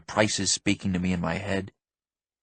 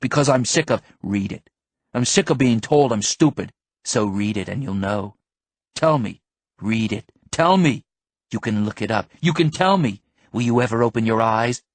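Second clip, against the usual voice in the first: rising fury at him; angry shouting; 5 dB louder than usual. Acted. Heated argument before yelling.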